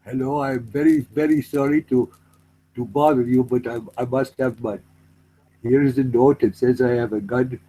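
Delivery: put-on meek, polite Indian accent; apologetic Indian-accented robber. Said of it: "if an Indian guy goes to a bank".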